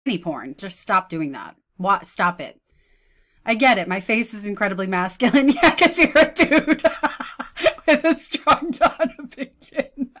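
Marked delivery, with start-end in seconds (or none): 5.5-10.2 high, loud, laughing jeer; mocking laughter. Real, not acted. Commentator answering a post, mocking laughter. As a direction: crack up while jeering.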